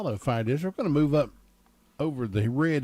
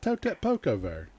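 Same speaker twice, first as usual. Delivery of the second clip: Southern dialect phrase. Retold or imitated. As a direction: spell out the Southern saying for an outsider. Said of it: "I said".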